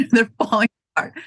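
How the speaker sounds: "They're falling apart." said fast through a laugh. Real, not acted. Owner joking about older customers' bodies, fast and laughing.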